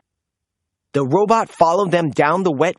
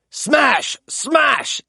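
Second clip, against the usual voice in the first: high, raised chant; playful yell; 9 semitones higher than usual. A narrator's reading. Friends smashing through rocks, yelling playfully. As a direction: shout it as you smash rocks. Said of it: "yelled Zeg and Blaze".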